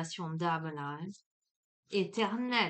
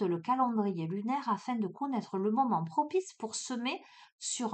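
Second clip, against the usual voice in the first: oracle card reading. Acted. Reads oracle card text aloud.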